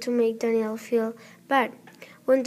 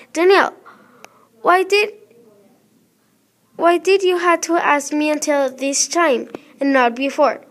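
sharp, raised scolding voice; furious mother; 5 dB louder than usual. Acted. Mother furious at late permission slip, raised voice. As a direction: scold her, loud and fed up.

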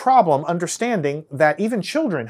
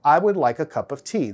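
plain Texan accent. Shown as a demonstration. Lecturer contrasting with his own Texan accent. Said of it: "But you see the difference".

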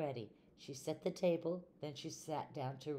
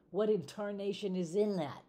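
spluttering outrage; 6 semitones higher, 5 dB louder than usual. Acted. Mister Rogers spits out cake.

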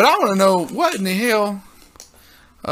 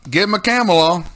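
hippie stoner voice; 2 semitones higher, 3 dB louder than usual. Pretend. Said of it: "In my hippie stoner voice".

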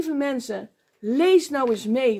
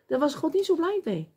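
usual speaking voice

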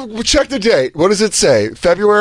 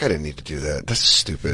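much lower, much softer self-scolding; regretful mutter; 12 semitones lower, 9 dB quieter than usual. Retold or imitated. Regretting the cigarette, low soft mutter. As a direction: mumble it to yourself. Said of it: "Where I was like".

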